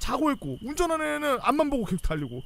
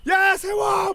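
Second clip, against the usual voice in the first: higher, louder yell to stop; shouted order; 9 semitones higher, 7 dB louder, much slower than usual. Retold or imitated. Military police shouting at the trucks to stop. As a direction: bark the halt again.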